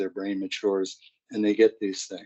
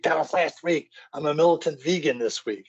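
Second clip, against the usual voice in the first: put-on higher, snooty teenage voice; haughty teen daughter; 6 semitones higher than usual. Teen daughter dismissing her mom, higher and snooty. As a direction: lecture mom like a smug teen. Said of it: "teen daughter retorts".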